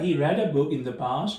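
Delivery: slow, word by word; measured classroom example; slow dictation. Shown as a demonstration. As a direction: spell the sentence out slowly. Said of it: "So यहाँ था".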